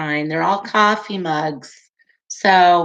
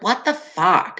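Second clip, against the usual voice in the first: put-on "What the fuck" in a light New York accent, vowel drawn toward "fawk". Imitating her New York friend with a light New York accent. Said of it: "she'd always be like".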